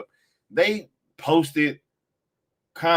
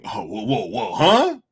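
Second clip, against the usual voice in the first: mock surprise; 3 semitones lower than usual. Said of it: "all of a sudden".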